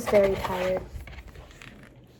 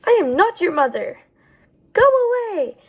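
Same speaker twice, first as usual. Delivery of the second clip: stern bear; 8 semitones higher, 5 dB louder than usual. Acted. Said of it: "Bruce is very stern and said things like".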